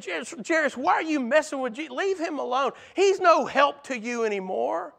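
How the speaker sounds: high, scornful jeer at Jairus; mocking crowd. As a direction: sneer at him to give up.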